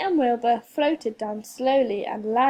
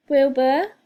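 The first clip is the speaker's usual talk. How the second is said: louder call of his name; 8 dB louder than usual. A narrator's reading. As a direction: call out after him. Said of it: "called Winnie".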